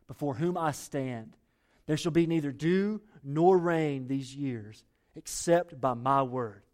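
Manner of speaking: solemn reading of the prophet's oath; scripture reading. Acted. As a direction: read the verse with weight and deliberate pauses. Reads scripture aloud.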